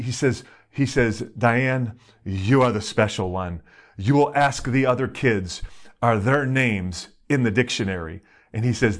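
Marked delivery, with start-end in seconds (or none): 1.4-8.2 lightly imitated Greek-accented father; a dad's Greek accent, measured and emphatic; thick Greek accent. Father tells Diane she is special, in a Greek accent. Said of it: "in his thick Greek accent".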